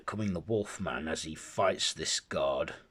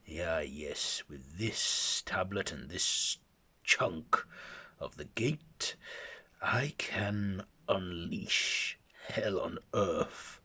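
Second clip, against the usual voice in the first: scheming villain; slower than usual. Acted. Akaten villain scheming alone.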